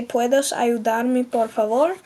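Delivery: very slow, careful Spanish. Shown as a demonstration. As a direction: model it slowly. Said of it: "you would say".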